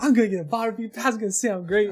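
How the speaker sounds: upbeat, cheery, high-voiced boastful chatter. Teasing a player about how they sounded when they came on: imitating someone sounding happy. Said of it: "You were happy".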